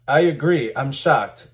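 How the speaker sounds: mock agreement, lightly sarcastic; dripping sarcasm. Reading out a forum reply about dishonest companies, mildly sarcastic. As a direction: feign shock with dry sarcasm. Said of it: "This is dripping with sarcasm".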